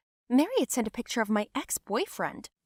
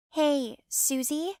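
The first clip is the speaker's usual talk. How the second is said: mock sweet call; 7 semitones higher, much slower than usual. Cousin calling out mockingly.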